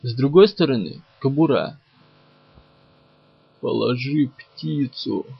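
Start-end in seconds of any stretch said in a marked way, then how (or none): 3.6-5.3 creaky inhuman voice. Acted. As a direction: creak it out like a monster. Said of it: "проскрипел он".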